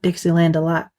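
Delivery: put-on Southern accent, "Delight" sounding like "a lot"; Southern US twang on the song title. Shown as a demonstration. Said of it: "that was my Southern accent".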